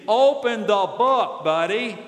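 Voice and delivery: slow, punched-out command; emphatic rebuke. Acted. Preacher answers those who say God never speaks, emphatic rebuke. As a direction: spell it out slowly and forcefully. Mock rebuke to complaining people.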